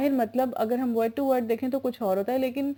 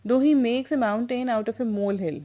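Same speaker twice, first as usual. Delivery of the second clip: slow dictation; much slower than usual. Shown as a demonstration. Teacher reads example translation.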